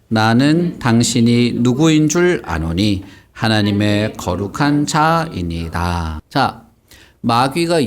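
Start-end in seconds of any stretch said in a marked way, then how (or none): 0.1-6.2 slow, drawn-out group recitation; reading aloud together. Shown as a demonstration. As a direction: read the verse slowly for children to join. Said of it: "우리 같이 읽어보자".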